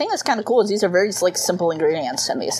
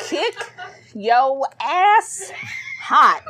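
shouting; 8 semitones higher, much slower than usual. Acted. Reading the sauce name.

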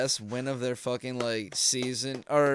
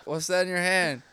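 higher, louder playful impression of Beetlejuice; imitating Beetlejuice interview; 6 semitones higher, 6 dB louder than usual. Podcaster acting Beetlejuice denying smoking weed, higher and playful. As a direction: ham up a dopey back-and-forth interview. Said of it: "I picture Beetlejuice just being like".

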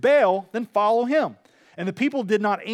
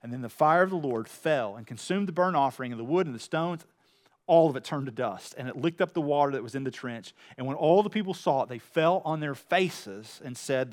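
low-pitched Bible narration; subdued, measured reading; scripture reading; 6 semitones lower, 5 dB quieter than usual. A narrator's reading. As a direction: read the verses in a lowered voice. Reads scripture aloud to congregation.

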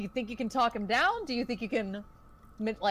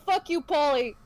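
put-on drunk betrayed rage; 4 semitones higher than usual. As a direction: rage at the man who slept with your wife. Betrayed husband confronts Paulie.

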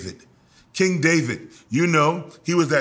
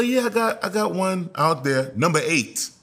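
excited Jesse. Acted. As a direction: hype up the youngest son, then shout hey. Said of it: "He said".

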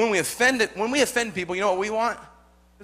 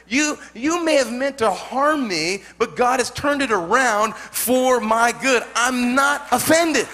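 bold proclamation; 3 semitones higher, 5 dB louder than usual. Acted. Bold proclamation, loud and slow.

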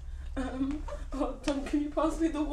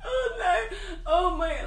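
laughing hard; 4 semitones higher than usual. Real, not acted. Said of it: "laughing this hard is, is hard".

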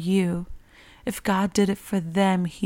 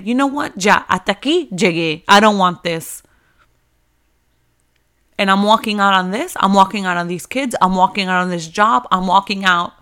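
louder, fed-up quitter's rant; mock quitting outburst; 4 dB louder than usual. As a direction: act out walking out in anger, louder. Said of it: "but you can say".

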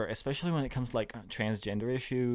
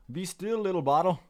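higher coaxing voice; playful coaxing; 7 semitones higher, 3 dB louder than usual. Pretend. Talking to a little bottle, high playful coaxing. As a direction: coax it in a raised, playful pitch.

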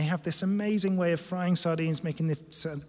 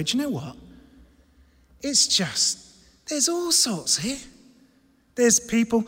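higher-pitched, chatty mock enthusiasm; mock easygoing approval; 5 semitones higher than usual. Preacher imagines what Paul didn't say, mock easygoing approval. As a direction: play an airily approving visitor. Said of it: "Notice that he didn't go like this".

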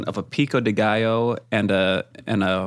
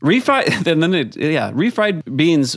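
laughing; 4 semitones higher, slower than usual. Real, not acted. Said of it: "giggling while reading review".

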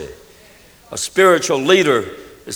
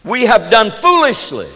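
higher cry of confession; 5 semitones higher than usual. Acted. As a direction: cry it out, owning the wrong. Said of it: "Aaron cried out".

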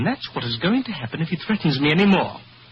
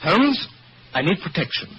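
sharp raised call of the name; urgent call; 5 semitones higher than usual. Acted. Client calling Holmes urgently, raised and insistent. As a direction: demand his attention at once. Client bursts out demanding protection.

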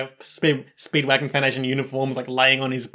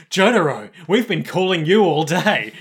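louder, pleading phone complaint; mock exasperation; 3 semitones higher, 5 dB louder than usual. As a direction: call out like a fed-up caller. Foundation nagging Jotaro by phone.

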